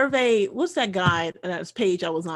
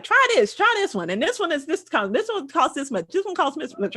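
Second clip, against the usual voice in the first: rattling off options; 7 semitones higher than usual. Retold or imitated. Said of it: "give you a list of the, like".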